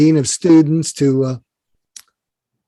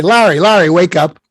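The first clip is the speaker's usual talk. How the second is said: raised, mock urgent wake-up call; 6 dB louder than usual. Storyteller summons his late mentor Larry, calling out to wake him. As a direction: call out to rouse a sleeper.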